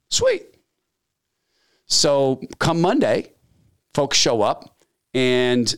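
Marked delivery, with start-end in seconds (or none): 0.1-0.5 very high, gleeful squeak; gloating. Retold or imitated. Boss gloating as union rep comes back, very high glee. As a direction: gloat like a schemer.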